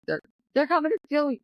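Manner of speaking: put-on high, fast, frightened little girl's plea; imitating a terrified daughter; panicked child. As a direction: rush it out like a scared child. Panicked child fears being taken.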